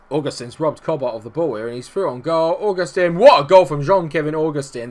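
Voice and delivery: excited match commentary building to a loud, high peak; live play-by-play. Real, not acted. Gamer calls his striker's goal, play-by-play rising to a shout. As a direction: call the attack, then burst out on the goal.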